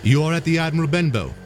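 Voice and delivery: a polite lad answering a stranger; young boy. Acted. Jim tells the blind man where he is, boyish.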